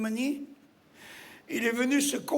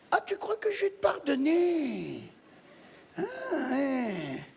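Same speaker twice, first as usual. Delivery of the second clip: wailed question; 4 dB quieter than usual. Acted. Widow asking her dead husband about forgiveness, plaintive wail.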